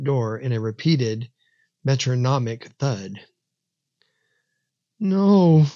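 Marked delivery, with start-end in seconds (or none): 5.0-5.7 high, louder cry of denial; a child's horrified, choked protest. A narrator's reading. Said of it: "choked out between shuddering breaths".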